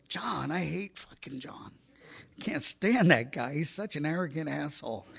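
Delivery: exasperated retold refusal; comically emphatic loathing; mock disgust. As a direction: balk at the very name, then vent. Retold refusal of suggested sponsor.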